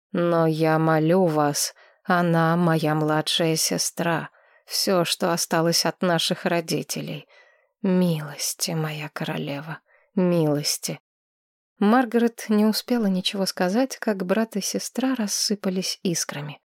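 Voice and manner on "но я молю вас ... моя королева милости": pleading. Acted. Sister begs the queen for mercy. (умоляюще, тихо)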